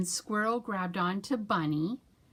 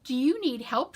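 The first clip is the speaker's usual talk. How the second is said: squirrel voice; 6 semitones higher than usual. Acted. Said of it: "she said".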